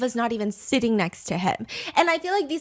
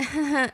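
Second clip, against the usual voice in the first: short, light mock giggle; imitated awkward giggle; 2 semitones higher than usual. Host mimics her giggling at the questions, awkward. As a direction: give a small put-on giggle. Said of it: "she just keeps, like, giggling".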